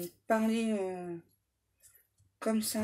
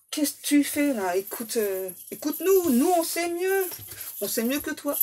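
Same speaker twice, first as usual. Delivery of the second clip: higher and louder, bossy know-it-all; know-it-all friends; 5 semitones higher, 4 dB louder than usual. Retold or imitated. Friends bossing him about the person, higher and louder bossy. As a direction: lecture him like friends who know better. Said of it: "les autres là autour qu'on dit à cet autre".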